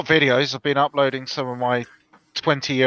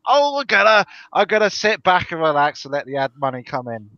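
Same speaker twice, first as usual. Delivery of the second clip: mocking quote; 2 semitones higher than usual. Guest mocking YouTubers living off ad money, exaggerated opening.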